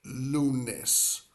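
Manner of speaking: lunes said slowly as LOO-ness; careful pronunciation. Shown as a demonstration. Spanish teacher modelling Monday's word for learners, careful pronunciation. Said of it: "go over pronunciation".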